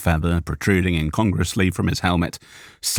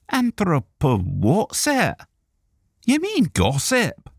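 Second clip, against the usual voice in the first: slow, puzzled dwarf, pitched higher; a gruff dwarf, baffled by the big word; 11 semitones higher, slower than usual. A narrator's reading. Borgrim the dwarf questions the fancy word, puzzled.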